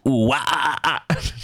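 hooting monkey calls again; hooting giggly monkey. Pretend. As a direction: hoot like a playful monkey. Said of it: "that was my impression of who?".

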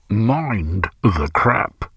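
slow drawn-out recorded announcer; tannoy announcement. A narrator's reading. Automated station voice calling over the tannoy. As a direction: call it like a crackly station tannoy. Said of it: "called the auto voice over the tannoy".

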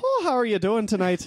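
put-on Irish accent. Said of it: "I'll play the role of the Irish guy".

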